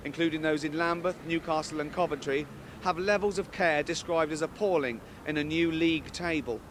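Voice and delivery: straight-faced news anchor read. Acted. Comic reading the news to the studio, formal anchor voice. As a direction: read the headline like a newsreader.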